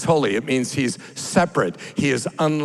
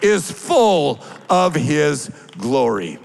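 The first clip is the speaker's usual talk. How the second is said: crying out; 6 semitones higher, slower than usual. Acted. Preacher urging the congregation, crying out holy in praise. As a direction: shout it out in praise. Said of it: "to cry out".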